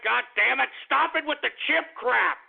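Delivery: exasperated, pitch climbing; fed-up outburst; annoyed scolding. Real, not acted. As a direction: snap at pranksters to cut it out. Scolds pranksters over joke names.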